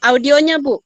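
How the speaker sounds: calling out. Real, not acted. Prompting muted participant online.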